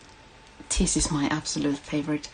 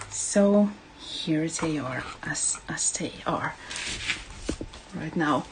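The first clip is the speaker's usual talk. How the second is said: whispering; 6 dB quieter than usual. Real, not acted. Aside while showing frames.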